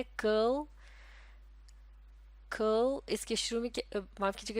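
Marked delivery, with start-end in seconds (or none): 0.0-3.1 कर्ल said clearly, with a slight rise; demo word curl. Shown as a demonstration. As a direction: model कर्ल twice. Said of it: "ये कर्ल कहलाया जाता है".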